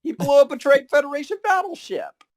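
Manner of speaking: high, loud insistent protest; indignant outburst. Real, not acted. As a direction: jump in to set the record straight. Indignant fan correcting cohost.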